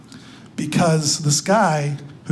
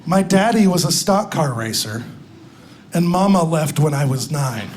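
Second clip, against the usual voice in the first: put-on Southern accent; 3 semitones lower than usual. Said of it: "Did you notice my accent?".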